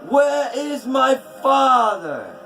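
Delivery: loud, high, raging cry; furious shout. A narrator's reading. Skadi shouting at the gods' doors, raging. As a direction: scream it at the gods in fury. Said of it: "She cried".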